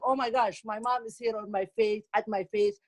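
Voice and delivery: lightly voiced complaining daughter; imitated daughter. Daughter complaining on the phone about mom, lightly imitated. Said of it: "my daughter will be like".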